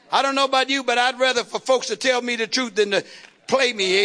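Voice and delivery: ordinary delivery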